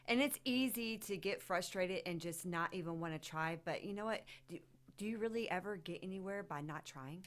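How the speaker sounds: talking while chewing gum. Real, not acted. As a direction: gum in the mouth. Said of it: "I just realized that I have gum in my mouth".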